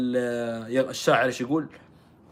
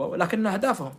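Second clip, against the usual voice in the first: normal talking voice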